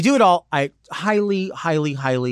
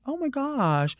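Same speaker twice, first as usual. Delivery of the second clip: teeth-don't-close talk; 13 semitones higher, 4 dB quieter, slower than usual. Retold or imitated. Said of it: "Like, their teeth don't close".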